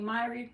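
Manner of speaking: Myri ending in an ee sound; trying a pronunciation. Shown as a demonstration. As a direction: say Myri as MY-ree, unsure. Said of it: "How you pronounce your name".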